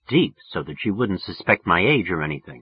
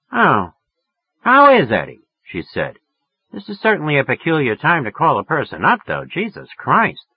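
higher, louder woman's voice; woman voice, half annoyed; 6 semitones higher, 4 dB louder than usual. Acted. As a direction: complain about the hour but stay on. Woman voiced in phone scene.

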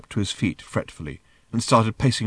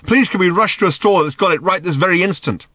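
loud, high mock excitement; sarcastic; 9 semitones higher, 7 dB louder than usual. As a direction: gush with biting sarcasm. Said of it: "that thing you call sarcasm".

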